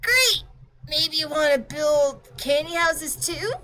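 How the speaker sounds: put-on high, fast, offended kid voice; indignant girl. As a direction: snap back at the pompous clock, pitched high. Girl character, laughing excited.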